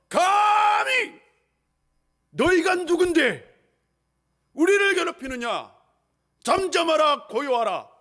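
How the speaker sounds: high, slow, thunderous command fading at the end; commanding rebuke. Acted. Jesus stares at the sea and commands it, slow and loud. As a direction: draw out the first word, then command. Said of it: "딱 바다를 응시하시며".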